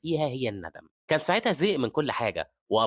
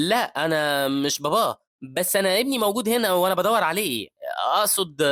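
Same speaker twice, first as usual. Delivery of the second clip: flustered; 7 semitones higher, 6 dB louder than usual. Acted. Confused man answers a woman who takes him for the father, flustered. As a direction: stammer out a flustered, louder excuse. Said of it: "بيتلخبط الراجل".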